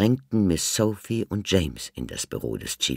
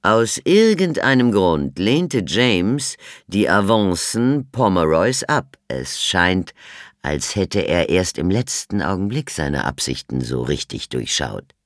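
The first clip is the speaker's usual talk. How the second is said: louder, deliberate inspector voice; Chief Inspector; 3 semitones higher, 6 dB louder than usual. A narrator's reading. The inspector confronts Miss Sophie, loud and deliberate.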